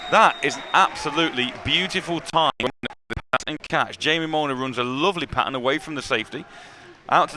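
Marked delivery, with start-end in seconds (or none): 0.1-4.0 delighted play-by-play shout, louder; excited. Real, not acted. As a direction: call out the catch, thrilled and loud. Commentator celebrating a great catch.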